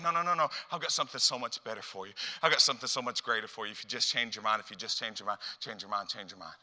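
soft, coaxing reassurance; gentle God. Retold or imitated. God gently inviting people to change, soft. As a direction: invite them tenderly. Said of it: "Instead, he's going".

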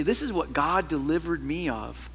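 put-on tender sincerity; really sweet. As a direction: say it gently, imitating a sweet testifier. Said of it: "they get really sweet and say".

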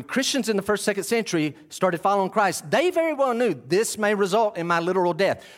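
high, insistent sermon voice; impassioned preaching. Real, not acted. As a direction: drive the point home to the congregation. Preaching with force.

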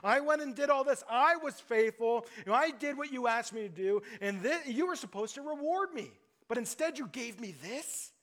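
mildly indignant complaint to God; scandalized. Acted. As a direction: voice a shocked, let-down believer. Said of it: "feel shocked and even scandalized".

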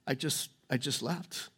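hushed, near-whispered retelling of his tears; tearful hush. Retold or imitated. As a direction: voice the man's fragile words very softly. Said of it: "he starts crying".

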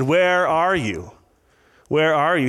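lightly acted, drawn-out call to someone hidden; calling out searchingly. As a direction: call out for them, stretching the words a little. God calling out in the garden.

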